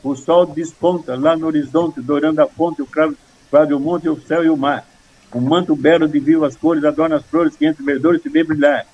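measured recital of a memorised poem; steady rhythmic verse reading; four-syllable verse recitation. Shown as a demonstration. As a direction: recite in regular four-syllable phrases, stressing the metre. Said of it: "Com quatro".

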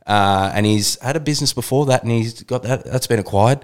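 breathless intro read; rushing through out of breath; running out of air. Real, not acted. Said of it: "I'm running out of breath".

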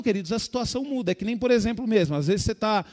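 usual speaking voice

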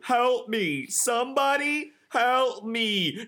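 high, hammed-up panic building to drawn-out wails; shrieking. A narrator's reading. Aaron calling for her real dad, panicked shrieking. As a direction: wail for help, stretching the words. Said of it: "I shrieked".

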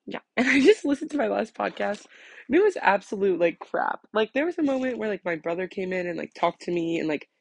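slight lisp from retainers; talking with retainers in; wearing a retainer. Real, not acted. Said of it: "So if you hear a lisp, um, that's why".

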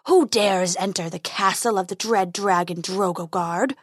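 a lightly voiced menacing dragon. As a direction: dragon challenging an intruder, mildly menacing. Dragon voice from the darkness.

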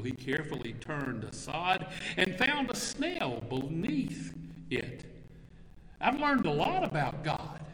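gently paced poem recital to the congregation; poem reading. Acted. Preacher reads a poem to the congregation, storytelling cadence. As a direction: read the verses like a storyteller.

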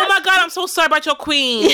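hammed-up North American accent; mock North American accent. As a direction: badly imitate a sympathetic North American. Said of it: "whatever the accent is".

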